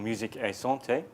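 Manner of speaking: Musique et Santé said the French way; French accent. Shown as a demonstration. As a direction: put on your best French accent. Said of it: "which is my best French accent".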